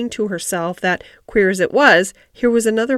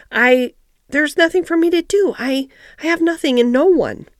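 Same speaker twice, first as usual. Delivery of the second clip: put-on high, upset child's faltering voice; stammering; 6 semitones higher, 4 dB louder than usual. Mary confesses to the gardener she has nothing, stammering. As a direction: falter on each "I", pitched well up. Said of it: "she stammered".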